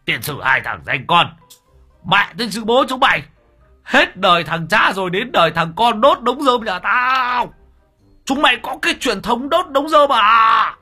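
screaming curses, very high and loud; cursing rage. A narrator's reading. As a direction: chase and curse them at full volume. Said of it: "mà đuổi, mà chửi". (vừa đuổi vừa chửi, gào thét)

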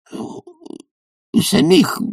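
high, drawn-out sullen mumble; Sharikov mumbling. A narrator's reading. Sharikov mutters back at Bormenthal before escaping. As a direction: mumble a feeble threat. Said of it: "пробормотал полиграф".

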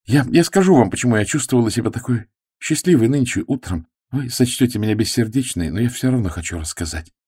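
put-on girl confessing her happiness; blurted out. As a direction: blurt it all at once. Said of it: "Флора выпалила".

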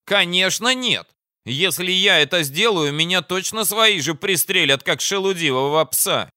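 high-pitched, pompous commander; self-important officer laying down terms; blustering enemy commander. Acted. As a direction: declaim it high at a foe.

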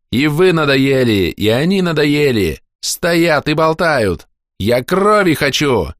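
put-on high, slow, whiny boy yelling; a bored boy shouting for blood; shouting child. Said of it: "кричал мальчик Рота".

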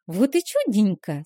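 carefree chirping. Acted. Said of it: "беззаботно прощебетала Вилма".

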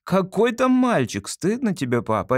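lightly voiced boy scolding his father; indignant son. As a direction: put Papa right, indignant and sure of yourself.

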